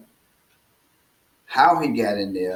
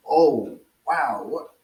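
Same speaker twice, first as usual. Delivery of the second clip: a startled, higher burst of surprise; stunned; 4 semitones higher, 5 dB louder, slower than usual. Retold or imitated. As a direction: gasp it out as if caught off guard. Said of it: "He is stunned".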